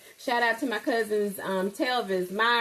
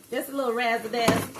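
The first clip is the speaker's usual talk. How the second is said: catchphrase voice; 3 semitones higher, faster than usual. Retold or imitated. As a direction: toss off a creator's catchphrase with flair. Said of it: "Can't remember what content creator says that".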